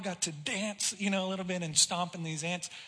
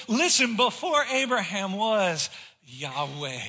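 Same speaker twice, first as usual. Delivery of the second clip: Jesus declaring; 4 dB louder, slower than usual. Acted. Jesus telling the Pharisees his name, loud then dropped. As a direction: call out Listen, then lay down Yahweh. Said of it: "He says".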